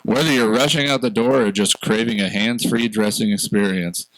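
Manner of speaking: smooth, scripted ad read; commercial voice. Acted. Host reading podcast sponsor's ad for self-buttoning pants, commercial voice. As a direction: pitch the product like a commercial announcer. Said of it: "put on your commercial voice".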